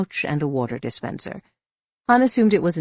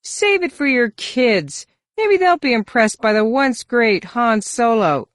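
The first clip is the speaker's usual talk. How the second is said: slow, sneering, higher alien voice; menacing sneer; 9 semitones higher, 7 dB louder, slower than usual. Acted. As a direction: drag out the taunt with contempt. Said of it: "glared at him menacingly".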